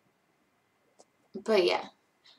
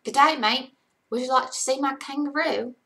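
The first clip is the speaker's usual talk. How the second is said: higher-pitched Australian accent; 4 semitones higher, 5 dB louder than usual. Shown as a demonstration. Streamer offers a look at a kangaroo, Australian accent. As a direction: do a cheery tourist-ad Australian accent. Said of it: "say this in an Australian accent".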